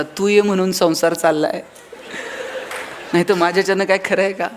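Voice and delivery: a light Rajesh Khanna-style line, with a laugh; husband charming his angry wife with a filmy line; filmy romantic dialogue. Retold or imitated. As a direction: deliver it like a film hero, half laughing. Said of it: "Rajesh खन्नासारखं बघायचं".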